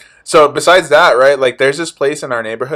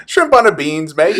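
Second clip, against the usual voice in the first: higher-pitched, badly faked British accent; 4 semitones higher than usual. Joking for friends after a last chance, in a mock British accent. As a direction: have another hammy stab at British. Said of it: "Do a British accent".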